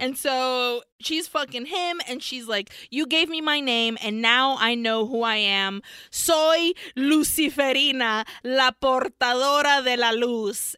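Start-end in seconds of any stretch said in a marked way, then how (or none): 2.9-10.7 slightly raised proclaiming voice; triumphant declaration. Acted. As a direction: announce your true name with force. Acts heroine declaring her name.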